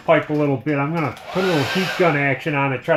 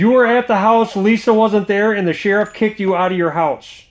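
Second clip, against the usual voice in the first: incredulous; 5 semitones higher than usual. Real, not acted. Incredulous recap of the story.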